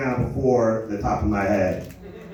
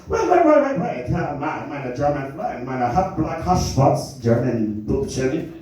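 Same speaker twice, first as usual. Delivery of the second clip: mock German neighbor. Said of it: "And he goes".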